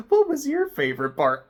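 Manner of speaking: high, loud cartoon-host question; hammed-up Dora-style quiz voice; kids' show host. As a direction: ask like a cheery children's TV host. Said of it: "like an episode of Dora".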